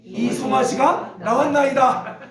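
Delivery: drawn-out, even recitation for reading together; scripture read-aloud. Acted. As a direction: lead the congregation through the verse, phrase by phrase. Reads scripture aloud with congregation.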